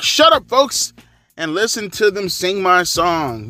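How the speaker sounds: a hint of a campy horror-movie villain; parody wrestler voice. Vlogger mimicking Seth's entrance line, lightly campy villain. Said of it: "he sounds like a parody from fucking a music video".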